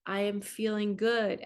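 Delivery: slow, calm positive I am statements; slow affirmations. Shown as a demonstration. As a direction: state each one unhurried and sure. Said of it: "And then you say".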